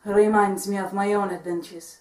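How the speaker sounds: put-on Puss in Boots style Spanish accent. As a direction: heroic swashbuckler in a Spanish accent. Held Puss character voice.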